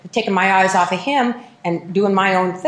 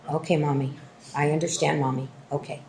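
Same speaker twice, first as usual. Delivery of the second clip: put-on meek child reply; 5 semitones lower, 8 dB quieter than usual. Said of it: "daughter answering mother".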